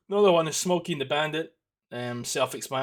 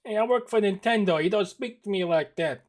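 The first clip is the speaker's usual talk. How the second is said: arrogant exec; 6 semitones higher, 5 dB louder than usual. Pretend. Mock Nintendo exec scolding.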